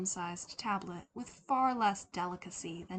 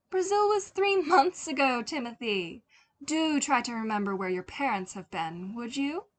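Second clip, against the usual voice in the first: high, loud teasing mother; lightly voiced teasing mother; 4 semitones higher, 7 dB louder than usual. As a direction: tease him with a lilt. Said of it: "Her voice was light and teasing".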